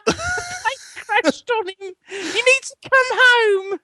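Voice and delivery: high, slow hammed-up mother voice; fake panicked mum. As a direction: drag it out like a frantic falsetto mum. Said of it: "pretend to be your mother".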